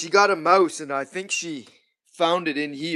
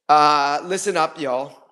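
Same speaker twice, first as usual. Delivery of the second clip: mock Southern accent, lightly done; Southern Canadian voice; 3 semitones higher, 3 dB louder than usual. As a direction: drop a playful Southern drawl on listen up. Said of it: "How do you like my Southern Canadian voice?".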